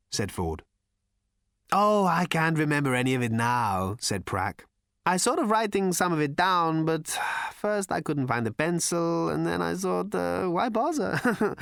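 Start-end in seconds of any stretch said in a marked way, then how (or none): 1.7-4.0 lightly voiced spaced-out hermit; giggly stoned Prak. 5.0-11.5 spaced-out hermit. Acted. Stoned hermit Prak rambles.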